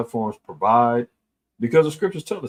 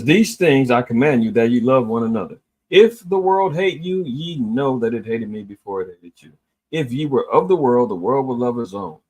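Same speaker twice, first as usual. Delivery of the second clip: louder, preaching read of scripture; 3 dB louder than usual. Acted. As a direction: proclaim the verses with force. Reads John fifteen aloud.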